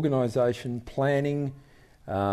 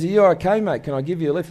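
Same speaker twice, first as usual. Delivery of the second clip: calling out; 5 semitones higher, 3 dB louder, faster than usual. Retold or imitated. Helicopter rescuer calling out.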